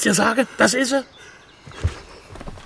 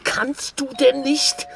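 whisper; 7 semitones higher, 3 dB quieter, slower than usual. Acted. Hissing at a friend.

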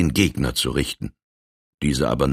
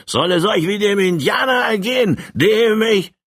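climbing far higher into an angry shout; furious outburst; 11 semitones higher than usual. Acted. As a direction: rage at him, rising to a yell. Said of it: "brauste der Colonel auf".

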